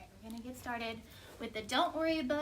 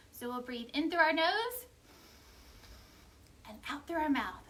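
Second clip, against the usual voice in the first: breathing guide; 2 semitones higher than usual. Shown as a demonstration. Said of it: "wanna take a deep breath with me".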